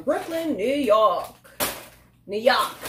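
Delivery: badly faked Brooklyn accent, drawn-out "Yawk"; bad New York accent. Chip reviewer playfully naming Brooklyn, bad New York accent. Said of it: "I know that was horrible".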